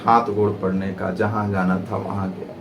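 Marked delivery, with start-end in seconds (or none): none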